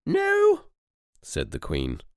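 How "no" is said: high, loud scolding no; sharp royal reprimand; telling-off tone. Acted. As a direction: scold like a stern grandmother. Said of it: "in a telling-off tone".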